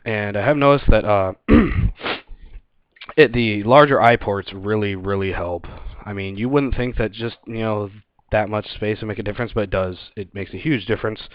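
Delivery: talking inside a gas mask; muffled mask voice; muffled through gas mask. Real, not acted. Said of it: "I'll put the mask on".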